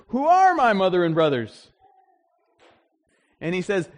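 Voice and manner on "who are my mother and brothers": louder, a firm rhetorical question falling at the end; Jesus' pointed question. Retold or imitated. Preacher voicing Jesus to the crowd, firm and pointed. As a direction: put the question to the crowd with authority. Jesus quoted answering his family.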